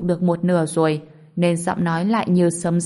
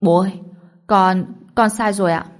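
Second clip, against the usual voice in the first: a son's mildly tearful, pleading apology; close to tears; 4 dB louder than usual. A narrator's reading. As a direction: plead with your father, almost in tears. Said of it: "như sắp khóc đến nơi".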